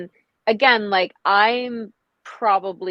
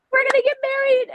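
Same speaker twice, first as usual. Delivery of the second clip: a much higher, sing-song promise of marriage; gushing lover's vow, pitched high; mock gushing lover; 4 dB louder, faster than usual. Mimicking a partner who promises marriage, gushing high. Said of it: "nobody's like".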